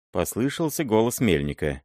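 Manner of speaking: ordinary delivery, nothing marked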